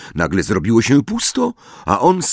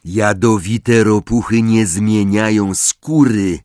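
solemn; 3 semitones higher, 4 dB louder than usual. Acted. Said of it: "oświadczył Ron z powagą".

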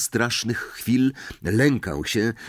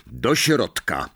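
curt order; 3 semitones higher, slower than usual. Acted. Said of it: "rozkazał".

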